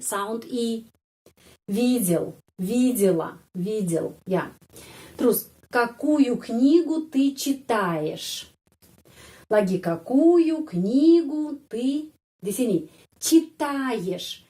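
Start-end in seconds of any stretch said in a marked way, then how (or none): 5.1-14.4 какую книгу ты читаешь read slowly. Shown as a demonstration. Teacher reads a Russian question slowly to students. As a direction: read the sentence slowly and clearly. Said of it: "kenapa Y".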